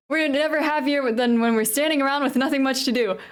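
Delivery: lightly put-on British accent; amateur British character accent. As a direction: attempt a silly British accent. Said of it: "funny little British accent".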